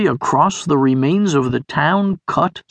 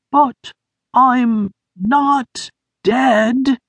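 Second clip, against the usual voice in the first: high, slow, feeble voice; weak voice; 9 semitones higher, much slower than usual. A narrator's reading. Injured Sniff answering Beamer, weak and high. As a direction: barely get the words out. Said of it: "said a weak voice behind him".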